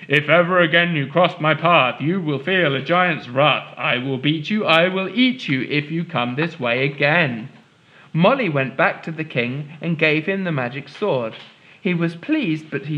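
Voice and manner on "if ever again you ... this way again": lightly voiced giant roaring his rhyme. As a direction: menace the girl as a furious giant. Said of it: "and roar".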